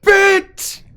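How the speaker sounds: very high, loud cry of a name; excited high-pitched call; delighted greeting. Acted. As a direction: hail a friend with a shriek of delight. Character greets arriving friend loudly.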